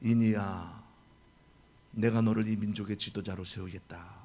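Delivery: deep calm divine decree; God's voice. Retold or imitated. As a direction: announce it like God. God speaks again.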